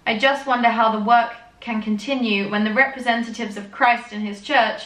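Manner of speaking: milk the drama of the tie feud; hammed-up reading of the elders' tie feud; mock dramatic reading. Reads the journal on.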